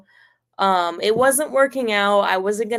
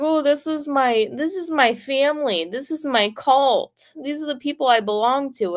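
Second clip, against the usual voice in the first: high, mock-earnest boyfriend voice; a high put-on boyfriend insisting this is his cult; 5 semitones higher than usual. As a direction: parody him proudly claiming his cult. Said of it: "And he's like".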